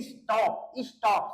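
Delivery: स्टॉप said as is-TOP, stress on TOP; two-syllable demonstration. Shown as a demonstration. Teacher shows students two syllables, स्टॉप stressed on the last. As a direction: divide स्टॉप in two and weight the end. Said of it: "दो बार इसको बोलते हैं".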